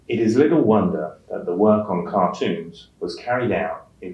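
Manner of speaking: newsreader-style read with slight pauses between phrases; phrased in chunks. Shown as a demonstration. Teacher modelling phrasing for test takers, newsreader chunking. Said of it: "group words into phrases or meaningful chunks".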